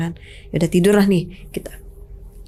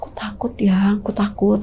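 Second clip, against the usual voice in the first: scared whisper. Retold or imitated. Wife whispering to her husband that she is afraid. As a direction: whisper your fear to him.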